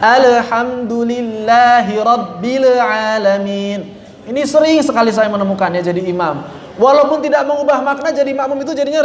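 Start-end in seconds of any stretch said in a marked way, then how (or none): 0.0-4.0 Alhamdulillahi rabbil alamin slowly with the lam bounced; bouncing lam. Shown as a demonstration. Teacher imitating the bouncing lam imams use. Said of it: "lam dipantul-pantulkan".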